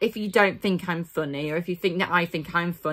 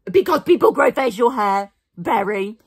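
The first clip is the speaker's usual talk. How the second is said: sassy loud retort; sarcastic reading; 2 semitones higher, 4 dB louder than usual. Acted. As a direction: snap back with sass. Sassy reply to a commenter.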